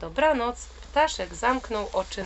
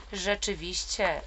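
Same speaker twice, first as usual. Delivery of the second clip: panted. Acted. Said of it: "wydyszał jeleń".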